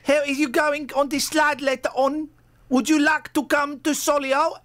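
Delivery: high, hammed-up Brummie voice; sing-song Birmingham tune, pitched well up; mock Brummie asking Pamela out; Birmingham accent. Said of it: "where is Pamela from? Birmingham".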